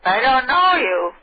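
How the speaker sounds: put-on slow, high, puzzled old lady; a frail old lady refusing. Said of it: "perfect little old lady voice".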